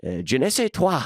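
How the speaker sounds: lightly voiced foppish duke reading a letter; mock love note. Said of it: "read a note by the Duke".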